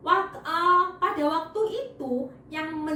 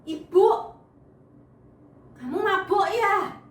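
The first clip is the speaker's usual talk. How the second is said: much louder, higher scolding call; rebuking priest; 6 semitones higher, 6 dB louder than usual. Acted. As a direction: snap the accusation at her. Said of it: "menegur Ibu Hana".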